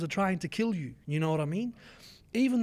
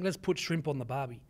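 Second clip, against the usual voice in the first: mock Aussie cliché; 6 semitones lower, 4 dB quieter than usual. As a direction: put on a stereotype Australian accent. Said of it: "the people keep saying".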